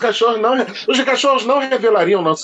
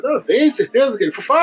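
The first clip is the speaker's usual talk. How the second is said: higher, eager insisting owner; insistent owner; 6 semitones higher than usual. Retold or imitated. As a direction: push back fast and keen. (dono insistente, voz mais aguda)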